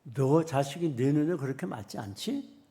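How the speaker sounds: loud stern rebuke building to a shout; God rebuking. Acted. God shouts down at the complaining parent, stern and loud. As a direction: scold the complaining parent from above. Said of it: "그럴 때 하나님 뭐라고 하는 줄 알아요".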